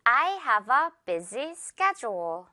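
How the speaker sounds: "schedule" said SKED-jool, with a j sound. Shown as a demonstration. Teacher modelling "schedule" for learners, careful j sound. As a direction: say "schedule" with the d softened to j, slowly. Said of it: "주어 발음 주의하면서요".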